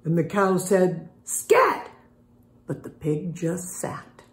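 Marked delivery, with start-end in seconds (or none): 1.2-1.9 much higher "Scat", a squeak; high squeaky scat. Acted. Cow shooing the pig off, squeaky high. 2.7-4.2 soft unvoiced storytelling; whispered narration. A narrator's reading. Reading to kids, whispering the refrain.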